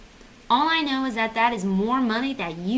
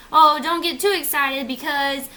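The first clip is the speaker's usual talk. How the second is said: slightly raised, louder cautioning voice; put-on agent voice; 4 semitones higher, 4 dB louder than usual. Agent cautioning about a catch, lightly put-on voice. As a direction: repeat the agent's warning in a mild put-on voice. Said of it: "I don't know why I did that voice".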